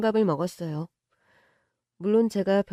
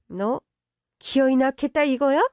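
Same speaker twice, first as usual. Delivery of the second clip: angry rich mother; 4 semitones higher than usual. Acted. Mother confronting the pregnant girlfriend, accusing. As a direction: challenge her decision.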